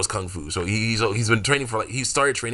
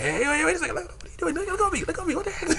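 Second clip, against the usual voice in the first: much higher, giggly frantic pleading; laughing panic; faster than usual. Pretend. She is seized on the ship, protesting high through laughter. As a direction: struggle free but keep laughing.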